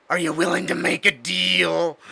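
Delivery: begging devil voice; pleading devil. Acted. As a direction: plead desperately for a deal.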